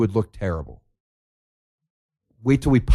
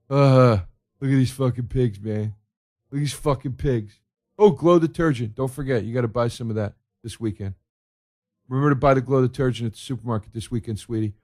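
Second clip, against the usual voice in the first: dumb viewer. Retold or imitated. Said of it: "The audience that sits there and goes".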